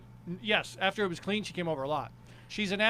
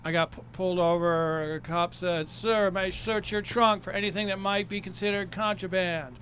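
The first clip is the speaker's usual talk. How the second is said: sing-song joke setup; sing-songy stage character. Shown as a demonstration. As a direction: tell it in a comic character's lilt. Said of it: "perform it sing-songy like my character".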